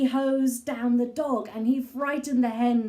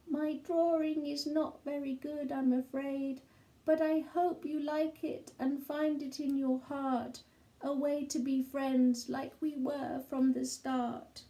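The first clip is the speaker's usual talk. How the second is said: shy apology; 3 semitones higher, 5 dB quieter than usual. Acted. Sid gives Kevin his card.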